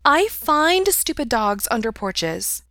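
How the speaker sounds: high, slow cat voice; talking cat voice. A narrator's reading. Cat Mopsy explaining to Mikey, high cat voice. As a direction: draw it out high, as a cat would.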